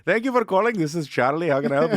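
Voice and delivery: lightly put-on Indian call-center greeting; mock Indian accent, scripted phone welcome; Indian accent, support agent. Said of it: "put on an Indian accent to call a support line".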